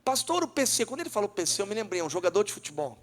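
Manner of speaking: ordinary talk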